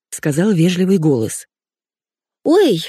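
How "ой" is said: high squeak of surprise; squeaky. Acted. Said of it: "запищала я".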